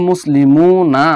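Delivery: মুসলিমুনা drawn out slowly with the final না marked; slow stressed demo. Shown as a demonstration. Teacher stresses the dropped nun for students, slow demo. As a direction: point out the extra না in মুসলিমুনা slowly. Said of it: "এই নার নুনটা কেটে গেছে".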